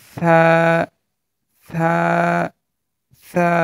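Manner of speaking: "সা" said as a thin, soft consonant, vowel held; thin, soft letter. Shown as a demonstration. Teacher models the letter for learners, "সা" thin and soft. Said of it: "হরফটি পাতলা হবে মানে হরফটি নরমভাবে".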